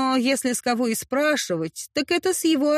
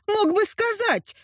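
indignant cry; 10 semitones higher than usual. Acted. Heroine reproaches him in a fight.

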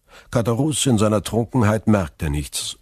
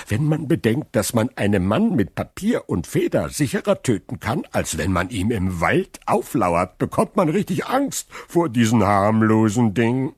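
louder, higher tipsy musing; drunken Caderousse; 5 semitones higher, 4 dB louder than usual. Acted. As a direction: ramble with drunken gravity.

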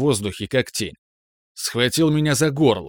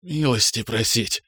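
gloomy. A narrator's reading. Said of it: "хмуро произнёс я".

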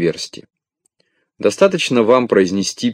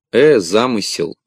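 impatient interruption. Acted. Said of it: "нетерпеливо перебил".

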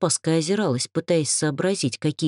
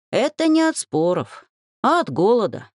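authoritative; 6 semitones higher than usual. A narrator's reading. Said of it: "авторитетно заявил Велька".

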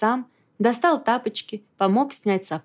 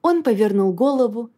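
ordinary delivery

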